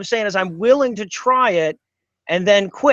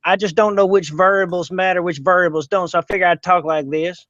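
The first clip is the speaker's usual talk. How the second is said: a hint of a backwoods yokel voice; lightly voiced country character fishing for donations; put-on hick voice. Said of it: "You, you gotta talk like that".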